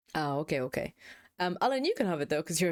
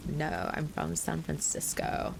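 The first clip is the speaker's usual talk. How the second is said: slow, curt reply; low dismissive voice; 2 semitones lower, slower than usual. Retold or imitated. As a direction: brush someone off coldly. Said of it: "said it with such a weird, like, bass".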